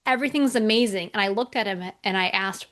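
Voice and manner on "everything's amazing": high, sing-song giddy boasting. Retold or imitated. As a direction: imitate a client floating on success. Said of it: "he was so giddy and so happy".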